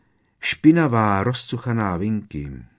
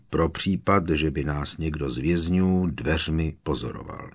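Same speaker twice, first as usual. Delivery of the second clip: flat toneless confession; 3 dB louder than usual. Acted. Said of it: "pokračoval stejně jednotvárným hlasem".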